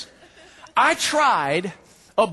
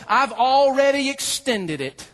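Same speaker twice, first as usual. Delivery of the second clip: slow voice of God; 5 semitones higher, slower than usual. Acted. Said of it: "and God says".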